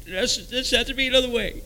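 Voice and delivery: high, thin desperate insistence; desperate plea. Retold or imitated. Man refusing his wife's plea, desperate and high. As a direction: plead it up high without shouting.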